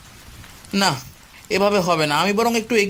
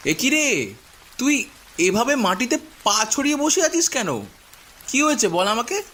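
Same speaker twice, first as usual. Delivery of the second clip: surprised; 4 semitones higher than usual. Acted. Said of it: "অবাক হয়ে বলল".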